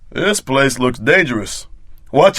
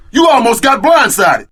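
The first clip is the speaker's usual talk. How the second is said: shout; 11 semitones higher than usual. Acted. Warning partner in fight.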